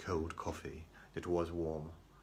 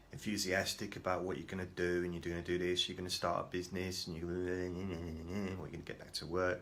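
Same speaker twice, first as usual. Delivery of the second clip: imitated social worker. Social worker listing his plans to him, lightly mimicked. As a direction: reel it off like a nagging impression, lightly done. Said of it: "That's how she talks".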